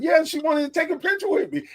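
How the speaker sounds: retold starstruck bragging; super excited. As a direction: gush it fast and high, quoting a thrilled fan. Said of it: "he was super excited".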